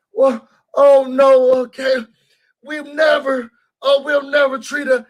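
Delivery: high, gushing mock reassurance; imitating their eager denials; mocking the women. Mocking the women who reassure her, high and gushing.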